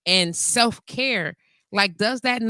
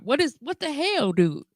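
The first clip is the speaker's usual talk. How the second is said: ordinary talk, nothing marked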